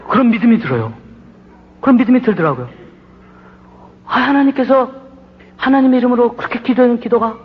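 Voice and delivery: rising sermon climax; preaching at full force. Acted. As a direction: proclaim the revelation to the congregation. Preaching the turning point.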